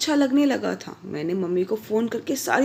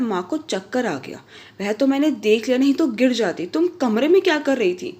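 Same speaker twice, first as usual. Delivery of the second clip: rising, louder scolding toward the end; angry husband; 3 semitones higher, 3 dB louder than usual. Acted. Husband confronting wife after mother nearly fell, rising anger. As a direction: scold her, building in heat. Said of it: "गुस्से में भव्या को आवाज़ दी".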